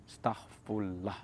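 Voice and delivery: very slow, soft, dragged-out starfallah; slow careful repeat. Retold or imitated. The narrator obediently repeating starfallah to the cellmate, slow and soft. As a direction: repeat it slowly and warily. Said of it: "redis starfallah".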